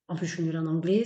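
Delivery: ordinary talk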